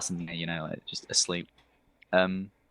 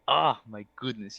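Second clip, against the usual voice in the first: flamboyant, cooing character voice; Hans voice; 6 semitones higher, 5 dB louder than usual. Acted. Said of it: "I really like the Han's voice".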